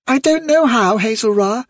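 very high, puzzled little voice; tiny high-pitched youngster; puzzled young rabbit. A narrator's reading. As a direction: answer like an unsure bunny child. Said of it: "The little rabbit looked puzzled".

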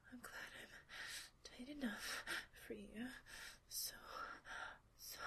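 hushed, close whisper held line after line; intimate whisper. Acted. Partner whispering to her lover during a roleplay, intimate whisper. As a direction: keep it all whispered and close to the mic.

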